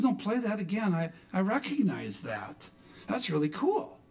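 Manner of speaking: a hint of a keen wife; intrigued wife. Wife insists, retold dialogue.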